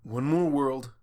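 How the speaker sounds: tired falling confirmation; weary answer. Acted. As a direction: resign to it flatly. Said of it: "Spike said".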